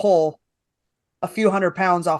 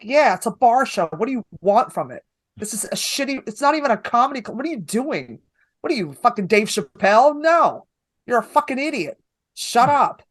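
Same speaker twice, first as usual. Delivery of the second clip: exasperated scolding; 3 semitones higher than usual. Retold or imitated. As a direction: scold him in mock exasperation. Retells scolding an upset comic.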